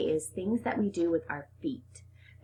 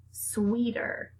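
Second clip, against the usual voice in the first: whispered; 4 semitones higher than usual. Shown as a demonstration. Teacher whispers the word to her speech class.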